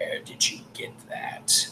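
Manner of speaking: very quiet, rasping, breathy whisper. The storyteller voices a gauntleted figure pointing at the statuette, raspy voice. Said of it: "And this raspy voice says".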